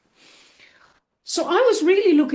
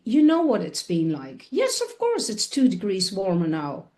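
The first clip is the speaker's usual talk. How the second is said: coaxing the water; 2 semitones lower than usual. Retold or imitated. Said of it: "So I was talking like this".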